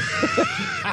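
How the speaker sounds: very high laughing shriek. Real, not acted. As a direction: burst into a squealing laugh. Laugh shout.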